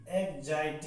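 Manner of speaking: "एग्जाइटी" said as eg-zai-tee; teacher repeats "एग्जाइटी" as eg-zai-tee; pronunciation demo. Shown as a demonstration. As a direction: model "एग्जाइटी" with a "zai" middle. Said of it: "ये इसका pronunciation है".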